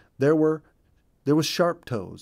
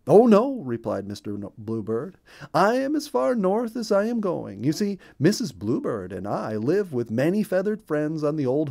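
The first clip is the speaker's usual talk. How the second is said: a friendly chirpy little bird; cheerful bluebird voice; 3 semitones higher, 4 dB louder than usual. Acted. Bluebird tells the ducks about his home.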